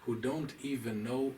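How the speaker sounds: put-on light Eastern European accent, slowed; slow, understated Eastern European accent quote. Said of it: "in his Eastern European accent".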